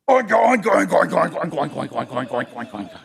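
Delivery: oink hard, then run down; pig oinking. A narrator's reading. Pig gives crowing a try, loud oinks dwindling. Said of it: "and he went".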